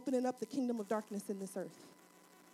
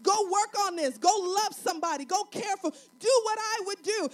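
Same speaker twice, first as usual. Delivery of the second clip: raised, emphatic string of commands; urgent preaching; 6 semitones higher, 6 dB louder than usual. Acted. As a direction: urge the congregation into action. Preaches God's urging.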